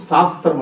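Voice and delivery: శాస్త్రం begun with a plain dental s; imitated mispronunciation. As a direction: flatten the first ś of శాస్త్రం into s. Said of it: "శాస్త్రం అనరు".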